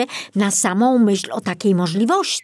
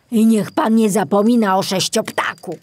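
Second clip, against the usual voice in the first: put-on old forester voice; 4 semitones higher, 5 dB louder than usual. Kobiela's parting remark.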